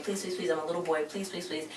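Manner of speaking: soft, fading imitation of pleading; mock begging. Boy begging for a live gig, softly mocked pleading. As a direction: plead under your breath, half-hearted. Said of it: "just begging".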